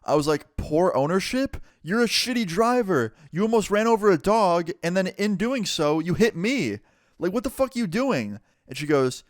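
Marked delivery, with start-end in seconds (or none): 0.6-8.4 high-pitched, incredulous retelling of an argument; indignant outburst. Retold or imitated. Storyteller argues with driver blaming the neighbor, indignant outburst. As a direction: throw the accusation back, pitched up in outrage. Acted quarrel, throws her words back.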